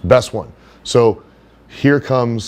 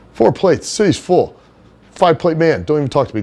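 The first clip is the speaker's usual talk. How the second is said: Johnny's bro voice; 6 semitones higher than usual. Retold or imitated. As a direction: greet him like an overly chummy gym bro, pitched way up. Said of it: "that's how he would talk".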